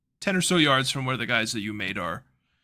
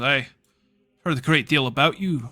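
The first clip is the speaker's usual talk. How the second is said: lightly Scottish tailored man; a hint of Scottish, by mistake; Scottish accent. Wrongly Scottish tailored man greeting the hero. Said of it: "he's not Scottish".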